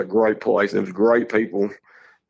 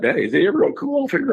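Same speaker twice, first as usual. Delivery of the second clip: imitating young son; 11 semitones higher, faster than usual. Son voiced in story.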